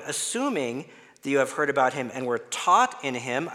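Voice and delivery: "taught" punched within the reading; stress on taught. Shown as a demonstration. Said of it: "emphasize some other words".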